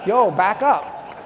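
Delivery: slow, loud, high tough-guy warning; tough guy brush-off. Retold or imitated. Walking into the retreat, warning others off with slow tough talk. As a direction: puff up and wave everyone off. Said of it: "and I'm like".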